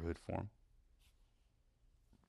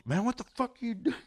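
high, loud mock complaint; imitated griping; 6 dB louder than usual. Friend griping down the phone, high mock outrage. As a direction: gripe it out in a raised, high voice. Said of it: "He's griping me out".

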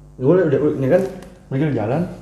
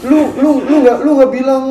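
retold angry girl; 10 semitones higher, 5 dB louder than usual. Angry woman in the retold quarrel.

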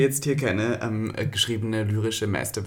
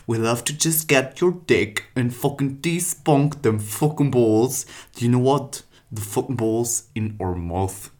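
loud, slow, hammed-up English porn voice; porn monologue; 3 semitones higher, 5 dB louder, slower than usual. Reading porn dialogue aloud to his co-host, hammed-up. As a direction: ham it up like a trashy porn actress. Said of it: "ich möchte noch einen vorlesen, als Monolog".

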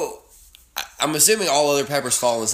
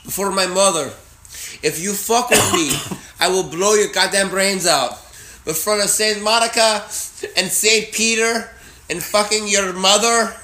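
gangster threat; 3 semitones higher than usual. Acted. Acting out a gangster threatening his partner.

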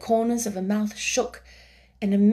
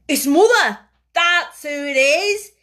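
louder, higher joyful shout; joyful cry; 6 semitones higher, 8 dB louder than usual. A narrator's reading. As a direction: call out to his mother with joy. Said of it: "he cried".

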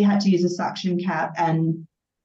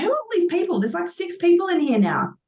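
bewildered; 10 semitones higher than usual. Retold or imitated. Retelling confusion in the delivery room.

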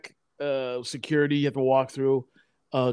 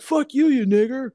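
higher and louder mock shout; angry customer yelling at another, higher and louder; retold shouted slur; 10 semitones higher, 5 dB louder than usual. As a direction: spit it out, imitating the man.

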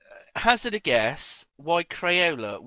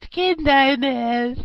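laughing; 8 semitones higher, 7 dB louder, much slower than usual. Real, not acted. Laughing slow repeat.

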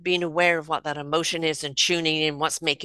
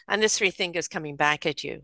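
ordinary talk

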